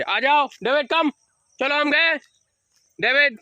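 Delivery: high, loud sing-song call to a puppy. Shown as a demonstration. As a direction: coax the puppy over from across the room. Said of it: "ऐसे".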